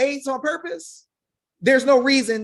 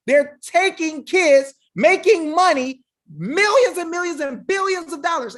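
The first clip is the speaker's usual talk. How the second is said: worked up; 4 semitones higher than usual. Real, not acted. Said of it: "I get a little worked up".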